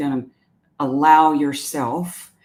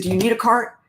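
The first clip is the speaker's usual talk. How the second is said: higher-pitched startled "What?" mimicking the worker; dazed employee; 8 semitones higher, faster than usual. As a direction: imitate a clerk snapped out of her thoughts, voice up high. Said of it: "She said".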